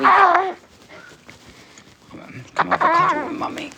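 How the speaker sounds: high, quick coaxing coo. Real, not acted. Calling baby for a cuddle.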